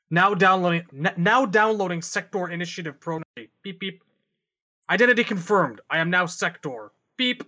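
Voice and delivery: lightly voiced computer announcement with little beeps; hint of a robot voice; mock robot readout. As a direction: read it like a machine confirming a download. Acts out a cyborg's software update.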